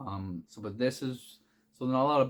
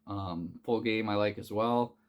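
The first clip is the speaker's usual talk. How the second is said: talking through hiccups; words broken by hiccups. Real, not acted. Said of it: "Sorry, I'm hiccuping".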